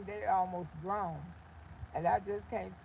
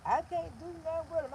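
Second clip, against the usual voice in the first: mock angry scold; 6 semitones higher than usual. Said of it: "I used to get so mad at her".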